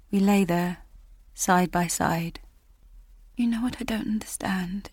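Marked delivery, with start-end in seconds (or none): 3.3-4.9 soft whisper lying in bed. Acted. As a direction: breathe it out in the dark. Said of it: "she whispered".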